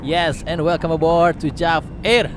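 airline captain over the intercom; formal cabin PA greeting; pilot announcement. Acted. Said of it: "This is your captain speaking". (suara pilot membuat pengumuman kabin)

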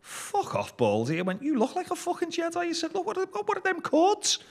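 high, loud jeering banter; re-enacted loud piss-take; mocking shout. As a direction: heckle him, voice shooting right up high. Retold mocking banter at baldy fella.

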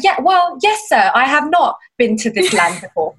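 hammed-up formal British accent. Londoner addressing a Chipotle server, in exaggerated British speech. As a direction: play the quaint British visitor, amused. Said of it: "I don't sound this British".

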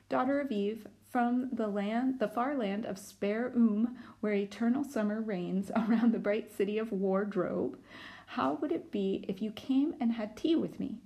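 a courtly faun inviting kindly; fawn voice. Acted. Fawn voiced in read-aloud.

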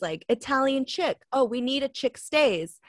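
"chick" with a short i and a ch as in chip; mispronounced chic. Retold or imitated. Imitating a coworker's innocent mistake, "chic" as "chick". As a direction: say "chick" like the baby bird. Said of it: "had never heard the word chic before".

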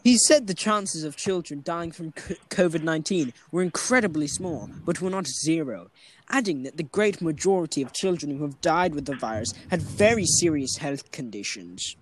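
reading an article aloud; lightly formal news reading. Real, not acted. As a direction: read it out like a news report. Reads out a news item.

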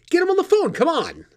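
high, loud impatient demand; yelling. Acted. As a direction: bark the order at her. Demanding again, yelling at Sheila.

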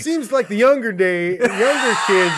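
put-on loud, cranky old-man grumbling about kids; old curmudgeon. Podcaster hamming up an old curmudgeon ranting about late kids, loud and cranky. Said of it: "allow me to be an old curmudgeon".

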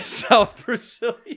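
high, slow, laughing attempt at a South Brazilian accent; mock South Brazilian accent. Friend obliging a request to hear South Brazilian, high mock accent. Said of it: "I'd really like to hear that".

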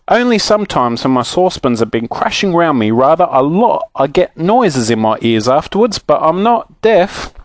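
mildly protest, slowing on the last words; saucepan man, indignant. Acted. Saucepan man explains his hearing.

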